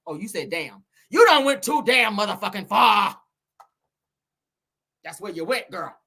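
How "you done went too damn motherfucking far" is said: forceful, throat-straining rebuke; rival's indignant voice. Acted. Redoing the rival's scolding line, shouted indignation. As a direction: punch each word through to the end. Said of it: "your damn throat don't be hurting".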